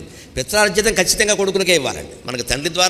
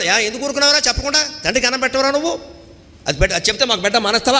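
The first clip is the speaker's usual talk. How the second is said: confronting the son; 6 semitones higher, faster than usual. Retold or imitated. Parents confronting son, voiced.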